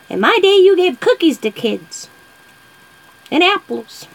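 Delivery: a lightly voiced wicked witch granny. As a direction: cackle it out like a storybook witch. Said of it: "I sounded like a wicked witch".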